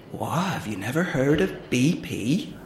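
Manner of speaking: a hint of country farmer accent; amateur rustic farmer accent. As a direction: deliver the punchline in a light farmer accent. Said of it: "I'm really sorry about the accent".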